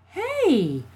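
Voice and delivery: high, loud "hey" from afar; sharp call. A narrator's reading. Mother calling from upstairs to fighting kids, sharp. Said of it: "a sharp voice called from up the stairs".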